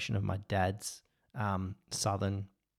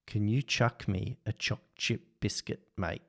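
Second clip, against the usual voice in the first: Australian accent. Shown as a demonstration. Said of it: "I want you to say".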